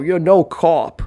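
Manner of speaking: exaggerated Boston accent; thick mock Boston accent. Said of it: "a rapper's fake Boston accent".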